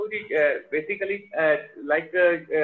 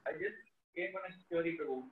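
faint, far from the mic; speaking too softly to hear; very quiet; 9 dB quieter than usual. Real, not acted. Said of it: "Prabhu, your voice is very low".

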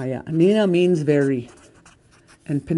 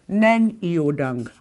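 slow and a bit louder; firm command; 4 dB louder, much slower than usual. Shown as a demonstration. Teacher showing a firm command, slow and loud. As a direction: order them to sit down. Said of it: "Come and sit here".

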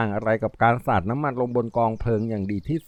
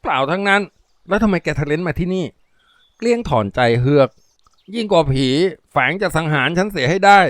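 frightened junkie; 5 semitones higher, 4 dB louder than usual. Acted.

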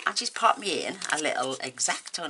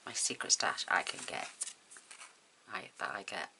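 rereads the note in a breathy whisper; whispered reading; 6 semitones lower, 7 dB quieter than usual. Shown as a demonstration. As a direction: whisper it to yourself as you read. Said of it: "oh, what's that say?".

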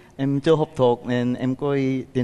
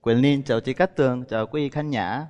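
Vietnamese with a Korean accent; 5 semitones lower than usual. Real, not acted. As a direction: foreigner speaking careful Vietnamese. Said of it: "Nói tiếng Việt hay quá vậy trời".

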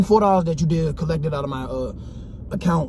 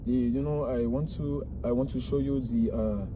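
fake Italian accent; 9 semitones lower, 8 dB quieter than usual. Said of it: "a fake Italian accent?".

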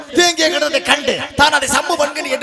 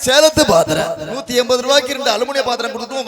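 singsong street hawker. Acted. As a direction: cry your wares to the housewives. Aluminium vessel hawker calls.

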